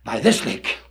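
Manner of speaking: high, hammed-up raging yell at the bird; furious shout. Poe shouting the raven off his door, hammed-up furious yell. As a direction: blow your top and chase the bird off. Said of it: "He looks at the bird and he says".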